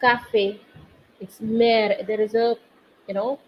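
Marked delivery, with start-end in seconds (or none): 0.0-0.6 café ending in a closed "ay"; contrasting É sound. Shown as a demonstration. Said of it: "it is completely different from". 1.4-2.1 mère with an open "eh", as in "air"; open È sound. Shown as a demonstration. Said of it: "a different sound here".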